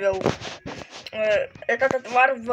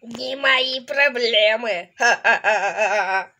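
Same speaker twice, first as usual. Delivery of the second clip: evil laugh. Acted. Doctor gloating over patient.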